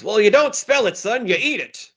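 lightly voiced grandpa quoting a film line. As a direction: podcaster quotes the grandpa's favorite line, mock old man voice. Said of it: "And the grandpa goes".

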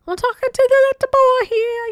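put-on high kid voice with Australian accent; little boy in an Australian accent. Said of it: "I gotta work on my Australian accent".

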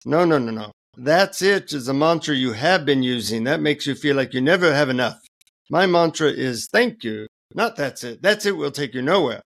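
put-on Indian-accented guru correcting a pupil. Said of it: "in an Indian accent".

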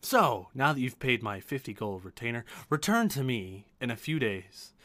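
measured, lilting merchant; magical item broker. Acted. Broker tells paying customer to return, measured. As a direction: set out the service with weighty emphasis.

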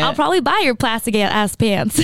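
slipping into a southern twang; light accidental southern accent. Real, not acted. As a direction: let a bit of southern accent slip out. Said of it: "I just got a southern accent".

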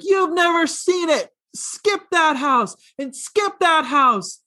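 high, slow dramatic movie line; movie heroine quote. Retold or imitated. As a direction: deliver it like the film's big monologue. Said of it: "she's like".

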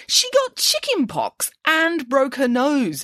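high, slow, shocked pig voice; exclaiming. A narrator's reading. Nanny Piggins exclaims to the children, high and shocked. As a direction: gasp it out in disbelief. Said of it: "exclaimed Nanny Piggins".

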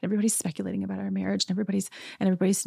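rushed, run-on mock complaint; mimicked fretting. Housewife fretting in her confessional, mimicked run-on complaint. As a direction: speed up as the list of worries piles up.

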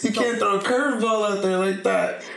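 mock the laughing guy; laughing complaint. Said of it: "then he starts rolling. He's like".

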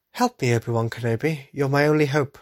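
lightly voiced pleading princess, a bit robotic; a hint of C-3PO-ish pleading; Princess Leia impression. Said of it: "That was a terrible Princess Leia impression".

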